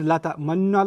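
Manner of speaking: "La ta'manna" with rounded, pursed lips; lips squeezed round the dhamma. Shown as a demonstration. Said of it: "I squeezed my, my lips as I said".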